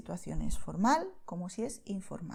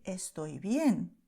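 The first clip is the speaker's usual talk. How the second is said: slow clear model; 2 semitones lower, much slower than usual. Shown as a demonstration. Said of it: "y decir".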